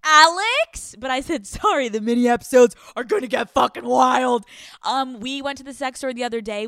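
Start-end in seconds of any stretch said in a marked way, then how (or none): 0.0-0.9 put-on loud, high protest as the boyfriend; boyfriend's scandalized call. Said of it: "he's gonna be like". 1.5-4.4 shouted, unrepentant announcement; loud mock apology. Real, not acted.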